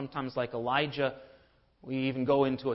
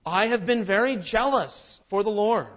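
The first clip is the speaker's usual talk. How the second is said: higher, louder, whining self-pity; self-righteous whine; 6 semitones higher, 7 dB louder than usual. Retold or imitated. Elijah whining to God, higher and louder. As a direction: whine it like you're owed. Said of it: "He begins to whine in a very self-righteous way".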